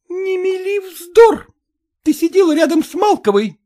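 wife screaming at her husband; shouting. A narrator's reading. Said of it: "закричала на него Копровская". (кричит, высоким голосом)

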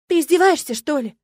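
high, loud disbelief; indignant gasp. A narrator's reading. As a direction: gasp the question in outrage. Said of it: "ахнула я".

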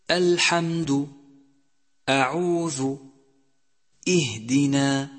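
thin, unemphatic hamza in الحمد, أعوذ, اهدنا; light hamza. Shown as a demonstration. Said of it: "يجب ترقيق الهمزة". (همزة مرققة)

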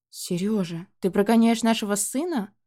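a touch of wifely outrage; mildly indignant question. Acted. Mother indignantly confronting her husband about sending their son away. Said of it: "возмутилась мама".

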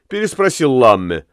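plain reading voice

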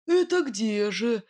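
a touch of jealous suspicion, slow; jealous question. A narrator's reading. Nightingale, jealous of a rival whistler: slow jealous asking. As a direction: ask it half jealous, drawing it out. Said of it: "с ревностью в голосе осведомился Соловей".

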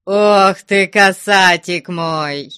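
high, drawn-out gushing endearment; fond exclamation. A narrator's reading. Abbot embracing the pilgrim, exclaiming fondly. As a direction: exclaim it with delight, stretching the words. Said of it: "воскликнул игумен, обняв паломника".

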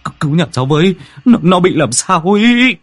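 terrified husband begging neighbours for help; stammering in panic. Acted. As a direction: stutter out a plea, trembling. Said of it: "miệng ú ớ".

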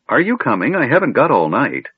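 put-on impatient old wizard. A narrator's reading. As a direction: hurry the kender along, high and testy. Impatient Fizban waiting.

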